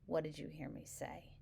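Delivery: soft, level question; quiet, patient ask; steady, calm repeat; calm and even. Shown as a demonstration. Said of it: "calmly and evenly".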